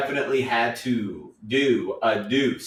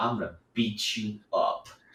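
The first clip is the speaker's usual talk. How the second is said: sarcastic, tongue-in-cheek, play-acted joking delivery; 2 semitones lower, 7 dB quieter than usual. Retelling own past joking words to coworkers: imitating own sarcastic threat.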